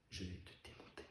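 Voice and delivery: barely audible, dead-quiet warning; near-whispered threat. Acted. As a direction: repeat the threat almost without voice. Threat repeated, far softer.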